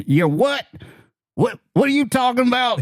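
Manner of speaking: high, baffled voice of a phone clerk; confused Walmart clerk. Retold or imitated. Walmart clerk puzzled by a call about a pool, high and confused. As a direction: play the bewildered store worker on speakerphone. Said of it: "you hear this voice out the other end going".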